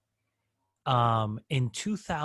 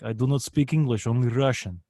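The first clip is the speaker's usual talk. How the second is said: lightly imitated Russian accent on the caller's words; a hint of a Russian caller's accent, nothing heavy; 3 semitones lower than usual. Retelling a Russian-speaking customer on a sales call, mild imitated Russian accent. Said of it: "I would start doing their accents".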